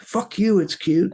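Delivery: high-pitched, indignant comeback; offended retort. Acted. Randy answers teasing about his little pistol, indignant. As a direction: play stung and defensive, voice jumping up.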